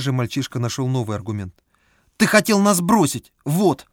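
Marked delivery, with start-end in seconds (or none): 2.2-3.9 put-on high indignant child voice; accusing child. A narrator's reading. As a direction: hurl the accusation. Boy accuses guide.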